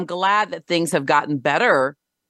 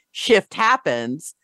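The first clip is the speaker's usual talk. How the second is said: slow, joking catchphrase; tongue in cheek; much slower than usual. Shown as a demonstration. Host jokes to guest about constant change, tongue in cheek. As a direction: drag out "shift happens" as a wry joke. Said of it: "tongue in cheek and in, in a joking way".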